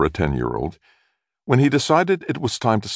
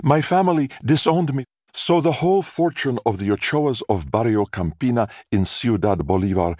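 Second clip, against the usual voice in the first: higher, theatrical weepy lament; tearful mother; 6 semitones higher than usual. A narrator's reading. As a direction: pour out her sad tale like a wronged heroine. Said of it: "Mother burst into tears".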